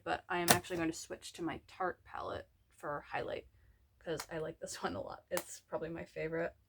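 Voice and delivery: sniffly, talking through a runny nose. Real, not acted. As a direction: speak like your nose is running. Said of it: "Yeah, my nose is running".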